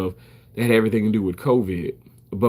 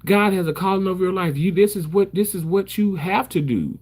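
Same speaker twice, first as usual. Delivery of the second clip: mom's encouragement; 8 semitones higher than usual. Retold or imitated. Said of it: "She said".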